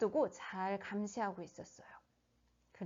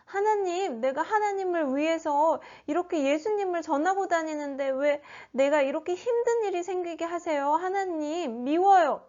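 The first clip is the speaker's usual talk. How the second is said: higher-pitched complaint to God; mock-resentful whine, higher in pitch; resentful prayer; 5 semitones higher than usual. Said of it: "하나님께 원망하는 생각이". (원망하듯 따지는 말투)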